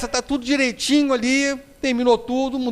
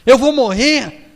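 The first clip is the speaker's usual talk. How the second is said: hammed-up panicked cries, higher and louder, slowing at the end; mock screaming for help; 6 semitones higher, 4 dB louder, slower than usual. Terrified passenger keeps crying out to Emmanuel, mock panicked yell. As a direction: wail like you're sure the plane is going down. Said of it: "Continuou gritando".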